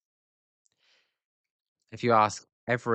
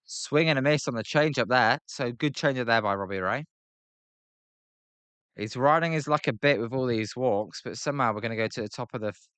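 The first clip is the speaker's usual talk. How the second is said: lively baseball call, slightly lifted; play-by-play commentary; 2 semitones higher than usual. Pretend. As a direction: call the game like a broadcaster. Mock live play-by-play of the game.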